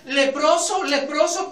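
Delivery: a mild mock cry of warning; leper's warning cry. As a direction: call out the warning to the crowd. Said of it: "Un leproso tenía que gritar".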